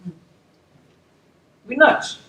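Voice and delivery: drawn-out emphasis. Real, not acted.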